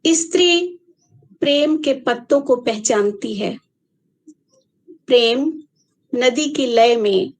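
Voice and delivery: measured poem reading with long pauses; unhurried verse recitation; poetry recital. Acted. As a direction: recite line by line, letting each phrase land. Recites second part of poem.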